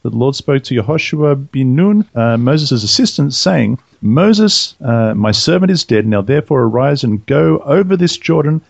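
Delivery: measured, formal reading of the Bible passage; scripture reading. Acted. Reading Joshua aloud to the podcast listeners, formal scripture reading. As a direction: read it out like a lector at the lectern.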